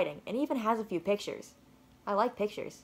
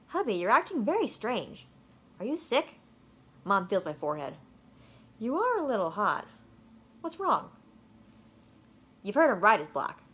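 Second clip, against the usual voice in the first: concerned mom. Acted.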